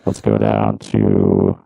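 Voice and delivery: clangy robot voice; metallic ringing voice. Shown as a demonstration. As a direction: voice run through a ring modulator. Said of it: "Ring modulator at five".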